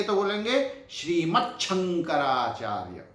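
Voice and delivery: "श्रीमत् शंकराचार्य" with the final d turned to t; clear joined form. Shown as a demonstration. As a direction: say "श्रीमत्" ending in a crisp t. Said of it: "जब इनकी संधि करेंगे".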